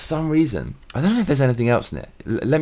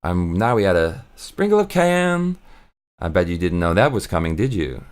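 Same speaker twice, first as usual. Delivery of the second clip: imitating Chef John; 3 semitones lower than usual. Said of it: "For example, he'll say".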